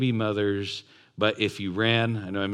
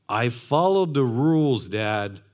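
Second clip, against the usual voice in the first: mock a self-righteous son; mock whine; 2 semitones higher, 4 dB louder than usual. Older brother whining to his dad about rules.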